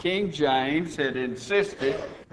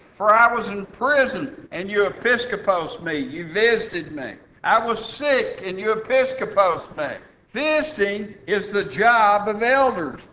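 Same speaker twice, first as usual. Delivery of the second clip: raised, emphatic pulpit voice; preaching; 4 semitones higher than usual. Real, not acted. Preacher teaching the flock that elders must visit, preaching. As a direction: preach it with firm, higher-pitched emphasis.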